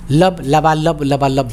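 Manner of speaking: slow rhythmic lub dub, like a heart; heartbeat imitation. Shown as a demonstration. Teacher imitates the heart in a stethoscope, slow rhythmic lub dub. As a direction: beat it out slowly, lub-dub lub-dub. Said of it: "उसमें बोलता है दिल".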